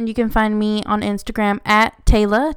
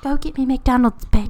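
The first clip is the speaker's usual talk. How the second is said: bad British accent; 3 semitones higher than usual. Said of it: "That was a terrible accent".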